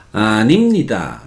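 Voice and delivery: "아닙니다" with the syllables pulled apart; mock wrong "아닙니다", middle syllable stretched; pronunciación incorrecta. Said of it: "no se pronuncia así". ("아닙니다" separando las sílabas)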